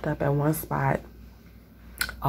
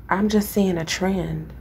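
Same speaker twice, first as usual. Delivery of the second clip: usual speaking voice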